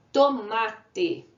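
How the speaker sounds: teacher reading out "tomate" in syllables. Shown as a demonstration. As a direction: say "tomate" in three clear beats. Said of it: "a gente já fez aqui a separação".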